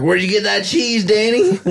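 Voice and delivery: joke character. Retold or imitated. Comedian's friend retelling a restaurant joke, lightly acted. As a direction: lightly act out the punchline question.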